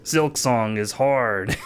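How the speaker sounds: slow, drawn-out mock maniac; mock maniacal glee. Streamer quoting a meme's laughing anime guy, mock maniacal. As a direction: imitate a maniacally gleeful anime guy, slowly. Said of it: "anime guy laughing maniacally saying".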